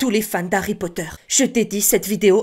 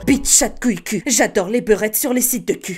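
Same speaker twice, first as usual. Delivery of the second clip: Harry Potter voice. Shown as a demonstration. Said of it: "insultes avec la voix d'Harry Potter".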